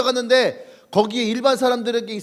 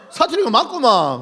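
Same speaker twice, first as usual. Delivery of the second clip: put-on Jeolla accent; 4 semitones higher, 3 dB louder than usual. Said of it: "경상도 사람이 전라도 와 있는 거야".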